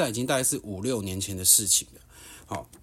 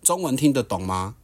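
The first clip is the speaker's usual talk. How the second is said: higher, louder cutting sarcasm; retold angry retort; 4 semitones higher, 5 dB louder than usual. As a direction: taunt him with a raised angry voice. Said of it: "我就很怒地看着他说".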